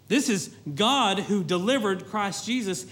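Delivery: usual speaking voice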